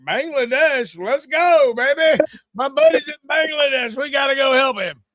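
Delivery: pumped, ready to go now; eager to help. Retold or imitated. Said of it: "I'd be like".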